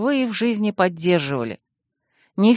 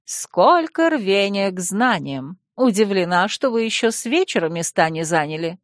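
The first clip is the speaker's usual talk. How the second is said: admiring. Acted. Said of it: "восхищённо проговорила". (восхищённо)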